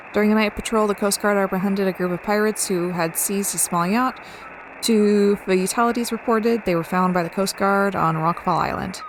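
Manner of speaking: even, measured news bulletin; radio news read. Acted. Newsreader reporting a coast guard patrol, bulletin delivery.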